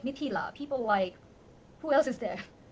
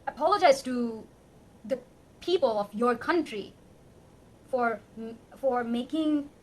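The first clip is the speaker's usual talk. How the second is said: real emotional outburst, louder; raised, passionate, pleading voice; 9 dB louder than usual. Real, not acted. Apologizing to a scholar for his country, raised emotional voice. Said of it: "I'm very emotional right now".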